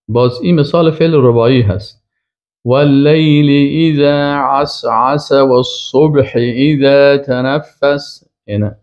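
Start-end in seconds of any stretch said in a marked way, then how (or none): 2.6-8.3 slow, drawn-out chanted recitation of the verse; Quran recitation. Shown as a demonstration. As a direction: recite it slowly, like tajwid.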